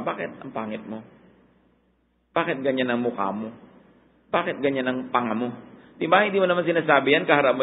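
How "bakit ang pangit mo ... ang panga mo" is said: quiet, snide jabs at a face; mock insult. Preacher imitating someone insulting a person, quietly snide. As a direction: sneer under your breath. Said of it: "pipintasan mo ba?".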